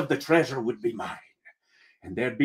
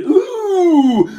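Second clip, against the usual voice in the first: high, loud collective "Ooh"; crew's "Ooh"; 8 dB louder than usual. Acted. Pirate crew reacting to the first mate's jab, loud high ooh. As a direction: taunt like a crowd egging on a fight. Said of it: "the whole crew went".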